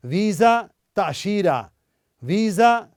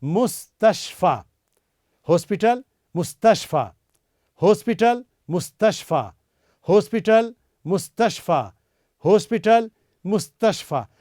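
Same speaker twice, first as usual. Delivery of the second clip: मुस्तशफा said slowly, each syllable drawn out; slow motion; 2 semitones higher than usual. Shown as a demonstration. Teacher slowing मुस्तशफा down for learners. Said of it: "मैं आपके लिए slow motion में बोल रहा हूं".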